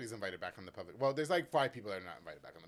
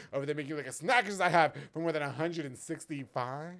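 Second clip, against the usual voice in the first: ad read; 4 dB louder than usual. Acted. Sponsor ad read.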